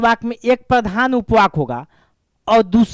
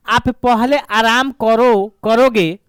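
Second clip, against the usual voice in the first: lovingly said; much slower than usual. Shown as a demonstration. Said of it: "ये बहुत प्यार से बोला है".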